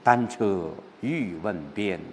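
slow, subdued reading of the line; gently lonely recital of 单车欲问边; lonely recitation. Shown as a demonstration. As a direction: read it softly, holding the loneliness. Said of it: "我们在朗读的过程当中有这样的一种感受".

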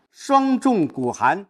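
the stressed words said slow and light, held inward. Shown as a demonstration. Teacher demoing inward stress, slow and light. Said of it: "只有轻读声音才没起来".

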